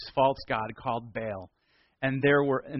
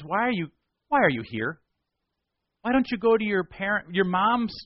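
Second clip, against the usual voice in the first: scornful rebuke; 7 semitones higher, 4 dB louder than usual. Acted. Elisha rebukes the visiting kings.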